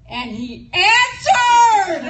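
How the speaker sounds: slow, loud, high cry through laughter; stunned laughing exclamation; real astonishment. Real, not acted. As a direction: let the surprise burst out laughing. Shock at the pastor picking up.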